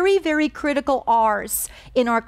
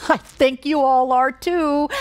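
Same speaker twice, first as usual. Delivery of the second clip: laughing; 3 semitones higher, slower than usual. Real, not acted. Laughing reply to child.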